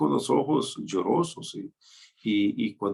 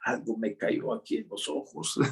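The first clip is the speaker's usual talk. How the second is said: man hiding tears; 5 dB quieter than usual. Retold or imitated. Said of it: "hace algo como decir".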